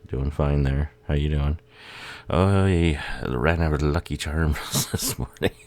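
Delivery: mock Irish accent. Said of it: "Sounds like everybody ... been Irish".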